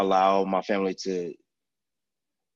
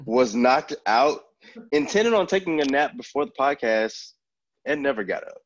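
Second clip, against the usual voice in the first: groggy voice; 4 semitones higher than usual. Real, not acted. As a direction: still half asleep, words heavy. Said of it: "my groggy voice".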